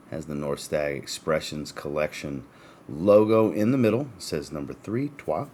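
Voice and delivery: talking through hiccups. Real, not acted. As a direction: voice jolted by hiccups. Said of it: "Sorry for the hiccups".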